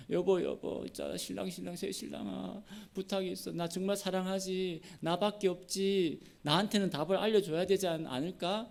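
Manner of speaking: playacted bride begging a favour; pleading wife. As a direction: wheedle a husband sweetly. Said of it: "삼손한테만 가서 막 그러잖아요".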